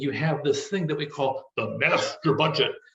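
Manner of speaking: deep, resonant voice. Explaining budgets with a joke, saying the term in a deep voice. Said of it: "You have to say it with that deep voice".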